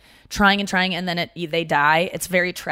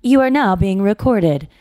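mock recording voice; 4 dB louder than usual. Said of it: "so it goes".

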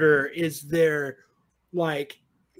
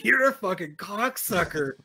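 fortune teller; 2 semitones higher than usual. Pretend. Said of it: "You know what the spirits tell me".

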